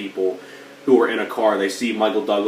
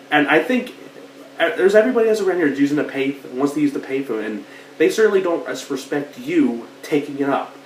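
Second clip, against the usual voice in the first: jerk at the payphone; 6 semitones higher than usual. Retold or imitated. Jerk nagging the hero to free the payphone, mock whiny voice. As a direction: play the pushy stranger, laughing at him. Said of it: "He's like".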